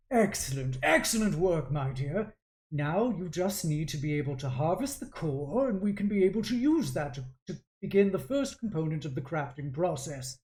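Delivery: approving mentor, lightly put on; lightly voiced artificer father. Father instructing his daughter in crafting, approving. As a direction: praise your pupil as an artificer father. Game master plays the father.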